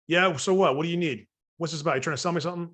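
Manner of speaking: impatient pushback; brusque homeowner, what-do-you-want; gruff homeowner. Pretend. Gruff homeowner pushes back.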